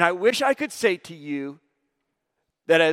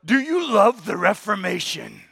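sarcastic; 2 semitones higher than usual. Retold or imitated. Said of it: "sarcastically said to us".

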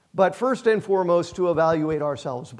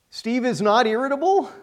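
higher question, lifting on IRRITABLE; 4 semitones higher than usual. Shown as a demonstration. Preacher testing his name in the verse, questioning. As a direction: raise "irritable" as a doubtful question. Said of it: "Question mark".

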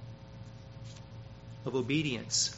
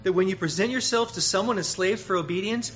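louder, higher preaching; emphatic scripture quote; 5 semitones higher, 6 dB louder than usual. Acted. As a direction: drive the verse home. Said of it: "So he reminds".

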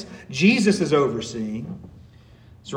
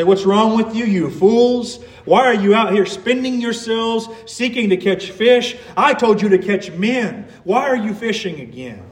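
imagined reprimand; 4 semitones higher than usual. Pretend. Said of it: "the Lord would reprimand them".

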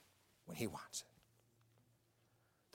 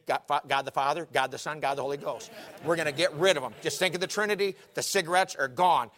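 loud declaration, building higher; forceful preaching; 3 semitones higher, 9 dB louder than usual. Retold or imitated. God telling Paul the cigarettes are gone, loud and building.

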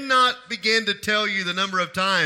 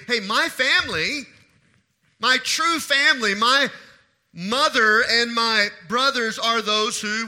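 emphatic quote, slightly raised. Retold or imitated. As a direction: put firm weight on each phrase. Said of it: "He says emphatically".

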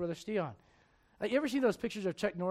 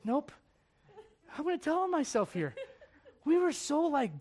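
laughing confession; 7 semitones higher than usual. Real, not acted. Confessing a funny story.

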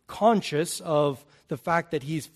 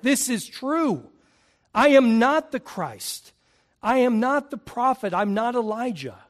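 higher, firm and deliberate, each phrase hammered; John the Baptist emphatically refusing the titles; emphatic denial; 7 semitones higher, 3 dB louder than usual. Retold or imitated. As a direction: flatly deny every title, no room for doubt. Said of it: "he is emphatic".

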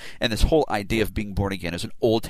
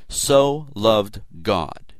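"so" drawn out slowly and leaned on; slow, weighted "so loved God"; stress on so; much slower than usual. Shown as a demonstration. Preacher lingering on "so" for his congregation. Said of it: "The word hutos is emphatically used".

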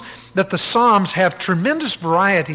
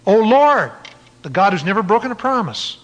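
retold fervent cry; 3 semitones higher, 3 dB louder than usual. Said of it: "he prays".

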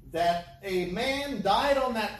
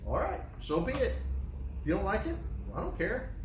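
unbothered attitude; 3 semitones higher, 4 dB quieter, faster than usual. Retold or imitated. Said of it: "with the attitude like".

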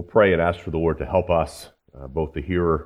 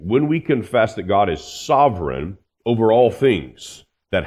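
raised, higher preaching voice; 4 semitones higher, 4 dB louder than usual. Acted. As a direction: build the sermon with fervor. Preaching at full force.

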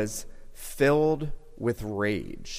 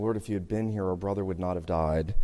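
quieter, sorrowful echo; 3 semitones lower, 6 dB quieter, faster than usual. Retold or imitated. Mary repeating her sister's words to the Savior, softly grieving. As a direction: repeat it softer and lower, a hushed grieving plea. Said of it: "They say the exact same thing".

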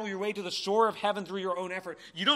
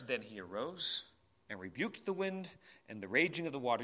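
softer and lower, calm and settled; 5 semitones lower, 6 dB quieter than usual. Shown as a demonstration. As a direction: let the storm go quiet. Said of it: "just the change in tone?".

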